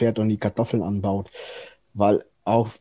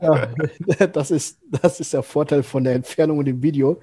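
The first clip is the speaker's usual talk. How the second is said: laughing; 3 semitones higher than usual. Real, not acted. Still laughing at frozen video.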